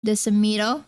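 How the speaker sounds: Desamito said the American way, dih-suh-MEE-toh; anglicized Desamito with a lazy schwa; American accent. Retold or imitated. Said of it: "their family names in such a American accent".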